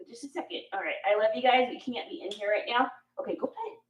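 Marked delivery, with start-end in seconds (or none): 3.2-3.8 cooing pet names. Real, not acted. Sending dog away.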